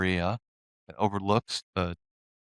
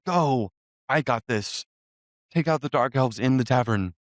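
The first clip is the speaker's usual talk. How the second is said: higher-pitched battle call, only lightly raised; restrained heroic yell; mild acted yell; 4 semitones higher than usual. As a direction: call out orders as the knight, without a full shout. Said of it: "he yells".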